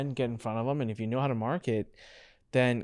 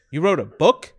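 surprised question; 3 semitones higher, 7 dB louder than usual. Retold or imitated. Cousin surprised.

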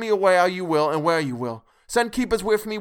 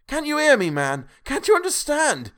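very high, very loud, rising to a shriek; frantic screaming plea; 14 semitones higher, 11 dB louder than usual. A narrator's reading. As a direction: scream to be let go, louder each time. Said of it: "poured forth a torrent of entreaty".

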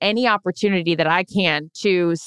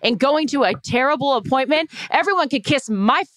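higher-pitched, heated defence of a friend; angry rant; 4 semitones higher than usual. Real, not acted. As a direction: rant indignantly with emphatic stresses. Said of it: "I get so angry about this".

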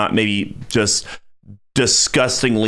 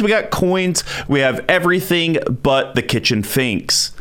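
upbeat announcer read of the plugs; news anchor outro. Acted. Host signing off the podcast, announcer style.

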